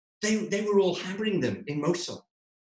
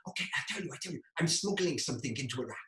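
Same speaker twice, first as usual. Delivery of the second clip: softer, a hushed admission in a tense argument; hushed confession; 7 dB quieter, faster than usual. Retold or imitated. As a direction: confess under your breath to a friend. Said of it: "trying to keep the voice down".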